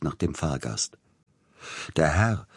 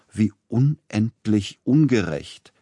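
slow, higher mock lament; lamenting yet relishing; 5 semitones higher, 4 dB louder, slower than usual. Agent Neugebauer complaining to Tchaikovsky, slow relishing lament. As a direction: whine it while enjoying it. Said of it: "rief der Agent klagend, dabei aber genießend".

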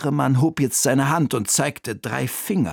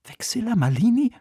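put-on high boy's voice, rising in surprise; boy's hushed question; 9 semitones higher than usual. A narrator's reading. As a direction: ask it as an astonished boy, fully voiced. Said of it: "flüsterte Oliver". (hohe, fragende Jungenstimme)

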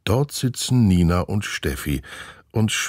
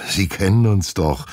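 puppy-dog plea; 3 semitones higher, 4 dB louder than usual. Acted. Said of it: "fügt Olaf mit Dackelblick hinzu".

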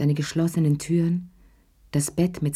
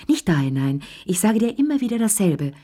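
raised and higher, a nagging scold; scolding call; 3 semitones higher than usual. A narrator's reading. Lea scolds Chéri about the ashtray, raised voice. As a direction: snap at him like an old habit. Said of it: "rief Lea".

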